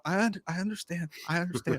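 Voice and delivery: small, careful, repeated reassurance; meek placating. Shown as a demonstration. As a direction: show how to appease someone who is yelling. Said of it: "I, I did this".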